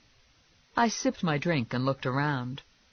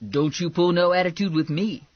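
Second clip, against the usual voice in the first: higher, louder, sassy pushback; indignant Lula; 5 semitones higher, 5 dB louder than usual. Acted. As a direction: put her on notice with attitude. Lula snaps back at narrator.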